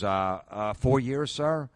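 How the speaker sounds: put-on mild, deferential retelling of a polite kid; polite young comic. Young comic answering club owner about experience, politely. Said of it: "He's real polite".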